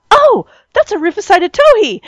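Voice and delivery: high, thrilled "Oh!" on spotting it; retold excitement. Parent spots a rare bird with daughter, excited. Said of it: "I was all excited".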